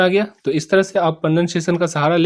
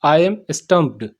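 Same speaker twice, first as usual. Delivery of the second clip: very slow and deliberate; slow model sentence; much slower than usual. Shown as a demonstration. Teacher slowly modelling the English for students. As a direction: lay out every word for the class. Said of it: "इस sentence का जो English होता है".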